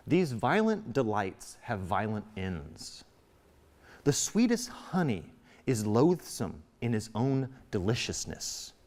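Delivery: slow, measured wise friar; a hint of a grave friar. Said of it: "very logical, very wise".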